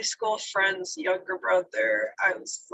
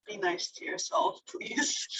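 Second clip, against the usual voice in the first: softer, half-whispered through tears; tearful plea; 5 dB quieter than usual. Real, not acted. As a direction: beg them gently while welling up. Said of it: "Oh, I'm crying a little bit".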